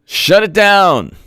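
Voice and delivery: drawn-out, slow closing line; slow mock finale. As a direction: spell it out slowly for effect.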